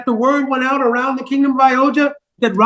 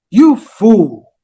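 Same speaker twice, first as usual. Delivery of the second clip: the insult thrown back, louder, in disbelief; shocked echo; 4 semitones lower, 5 dB louder than usual. Acted. Queen Kaikeyi echoes the nurse's insult, louder and stunned. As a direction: repeat it as if you can't believe your ears.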